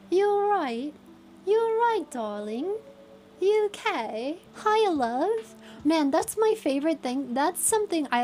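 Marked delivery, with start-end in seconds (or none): 0.1-0.9 higher, brighter British greeting; British "you all right?"; British accent. Shown as a demonstration. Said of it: "qualified enough for a British accent". 1.5-2.8 British "you all right, darling"; British accent. Shown as a demonstration. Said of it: "qualified enough for a British accent". 3.4-5.5 higher, chirpy British "Hiya, love"; a cheery northern-style British hello; British accent. Shown as a demonstration. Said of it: "qualified enough for a British accent".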